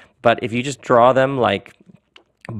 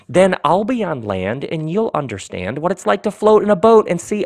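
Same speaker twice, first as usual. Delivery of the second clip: higher, sing-song story character making an offer; Ron; 5 semitones higher than usual. Acted. Ron offers Don his boat, lilting character voice. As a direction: pitch the deal with playful, lilting persuasion.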